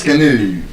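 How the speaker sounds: canoe as kuh-NOO; weak start, long oo in canoe; correct pronunciation. Shown as a demonstration. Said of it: "The correct pronunciation of that word".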